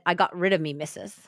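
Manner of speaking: a faint, accidental Irish lilt; badly attempted Australian, coming out slightly Irish; attempted Irish accent. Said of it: "That's a Irish accent".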